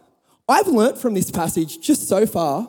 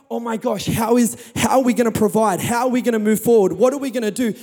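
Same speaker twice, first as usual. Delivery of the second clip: fast, fretful rush of worry; imitating a panicked believer; mock panic; faster than usual. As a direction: rattle off the worries in a hurry. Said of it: "we encounter the fear".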